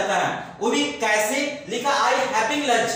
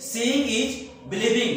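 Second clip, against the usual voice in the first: very slow, word by word, as if writing it on the board; slow dictation; much slower than usual. Shown as a demonstration. Teacher writing the phrase on the board for students, says it very slowly. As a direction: stretch each word out for the class to copy. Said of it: "मैंने क्या लिखा".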